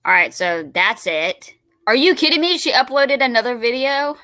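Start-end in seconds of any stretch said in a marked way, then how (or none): 1.9-4.2 higher, louder, fast disbelief; real surprise at news; surprised exclamation. Real, not acted. New upload catches her off guard.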